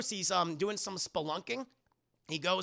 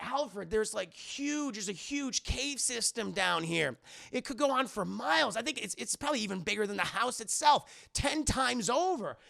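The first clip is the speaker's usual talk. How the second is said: lightly acted amazement, pitch lifted; a touch of breathless-free awe, raised voice; excited discovery; 5 semitones higher than usual. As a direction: report a huge find with wonder. Bruce marvels at discovered cave.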